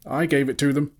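high-pitched little squeak; frightened squeak. A narrator's reading. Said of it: "squeaked Bilbo".

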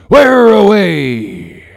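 high, loud, drawn-out call; captain calling out slowly to the lookout; hailing shout. A narrator's reading. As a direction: shout up to the masthead. Captain hails the lookout aloft.

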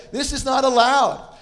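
high, loud, drawn-out scolding; mock German yell. German ride attendant yelling at the parents, mock scolding yell. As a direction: imitate a German student yelling a ban. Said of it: "starts yelling at us with this German accent".

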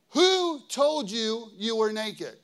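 a hint of God's stern question; the Lord asking. A narrator's reading. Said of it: "the Lord asked".

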